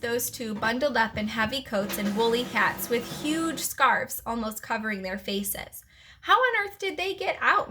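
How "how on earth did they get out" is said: high, puzzled question; wondering. A narrator's reading. Teacher puzzled by the escaped pets, wondering. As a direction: lift the pitch in baffled wonder. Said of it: "Missus Brisbane wondered".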